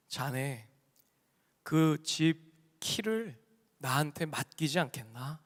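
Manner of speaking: low, soft, unhurried offer with pauses; gentle, smiling. Retold or imitated. Jesus grinning, makes the rich man an offer, gently. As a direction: imitate a kindly elder, word by word. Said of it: "씩 웃으시면서 한마디 하시는".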